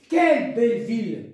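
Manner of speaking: strong attack on "Quelle", then falling; exclamation. Shown as a demonstration. Teacher gives an example of an exclamative sentence, exclamation. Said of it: "Voilà le point d'exclamation".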